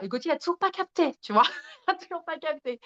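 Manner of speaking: laughing. Real, not acted. Amused at clueless partner.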